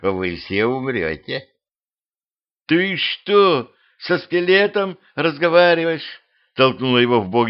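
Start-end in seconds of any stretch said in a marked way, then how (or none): 0.0-1.5 tag. Acted. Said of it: "Череп осклабился". 2.7-6.2 higher-pitched disbelieving question; incredulous girl. Acted. Girl nudges Petrovich about talking to skeleton, incredulous.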